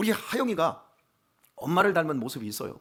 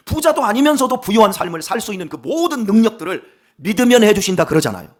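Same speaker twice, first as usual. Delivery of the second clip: loud, high pulpit fervor; full-force preaching; 5 semitones higher, 9 dB louder than usual. Acted. Pastor urging the congregation to seek grace, loud fervent preaching. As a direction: preach it out with urgency.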